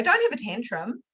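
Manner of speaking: mock parental nagging, repeated; scolding parent. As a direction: parrot the old telling-off. Mimicking parents telling off.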